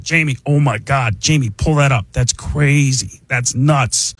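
slow, amazed Rogan; Joe Rogan. Retold or imitated. Comic morphing voices, slow amazed Joe Rogan. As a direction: drag out oh my God like Rogan. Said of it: "it becomes Joe Rogan".

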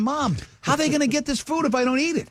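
high-pitched mock plea to mom; protesting kid. Child protesting to mom, retold.

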